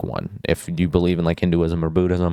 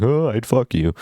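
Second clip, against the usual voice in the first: put-on teasing bro voice, pitched up; mock crude joke; 5 semitones higher than usual. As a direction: toss it off like a joking buddy. Imitating crude joke between guys.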